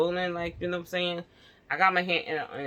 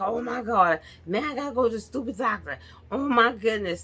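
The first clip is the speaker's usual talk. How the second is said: grumbling; 4 semitones higher than usual. Retold or imitated. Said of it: "So I was just like".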